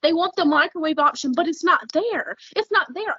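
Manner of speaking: real worked-up insistence. Real, not acted. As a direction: drive the point home, all worked up. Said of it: "I'm worked up, obviously".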